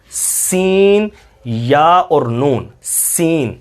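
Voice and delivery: سین broken into یا and نون, then joined; spelled-out letter. Shown as a demonstration. Teacher breaks سین down for students. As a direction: split سین into its sounds. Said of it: "نون کی آواز آتی ہے".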